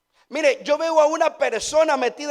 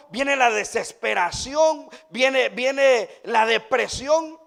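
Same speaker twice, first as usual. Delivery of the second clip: slow heavy emphasis; slower than usual. Acted. Preacher describing despair to the congregation, slow and grave. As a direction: drag each word out slowly and gravely.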